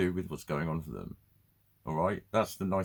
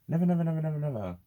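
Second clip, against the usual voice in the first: higher, louder never repeated; emphatic never; 7 semitones higher, 3 dB louder, faster than usual. Real, not acted. Insisting he can never stop his emotions, louder. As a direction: hammer the word never.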